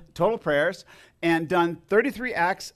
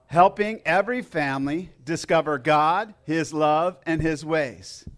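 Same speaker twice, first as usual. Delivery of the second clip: group recitation. Real, not acted. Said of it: "Let's say that together".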